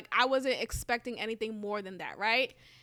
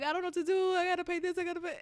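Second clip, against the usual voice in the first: retold panicked ranting, raised pitch; high, rushed panic; 7 semitones higher, much faster than usual. To her cousin on the phone, a mock panicked rant. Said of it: "I'm like, ranting".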